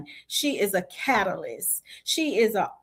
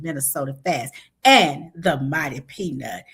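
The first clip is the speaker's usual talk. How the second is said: sexy voice; 4 semitones lower than usual. Pretend. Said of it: "I'm gonna get my sexy voice on".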